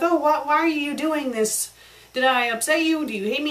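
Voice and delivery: mildly upset, pleading questions; lightly acted hurt and bewilderment; upset SpongeBob. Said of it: "SpongeBob's all upset".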